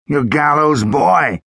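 put-on slow, wondering old lawman; amazed sheriff. A narrator's reading. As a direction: draw it out in disbelief.

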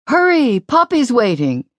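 put-on high, urgent boy's voice; little brother hurrying his sister home; impatient little brother. A narrator's reading. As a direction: tug her away, impatient.

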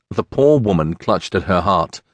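ordinary delivery, nothing marked

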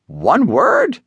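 a touch of surprise; surprised. Acted. Surprised reaction.

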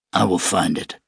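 a lightly voiced weary gunman; wounded gunman. Shano resolute.

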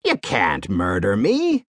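low, frightened protest; understated strangled pleading; gurgled plea. A narrator's reading. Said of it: "he gurgled".

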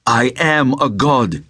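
mouth full. Acted. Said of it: "his mouth full".

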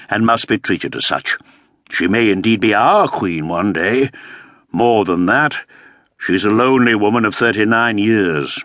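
lightly voiced tired nobleman; a patient elder lord; weary old earl. Earl's voice, higher than narration.

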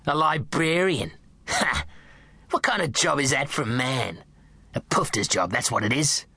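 mocking, contemptuous sneer; a hint of a jeering drunk nan; scornful nan. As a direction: scoff at the job. Nan mocking dad's job.

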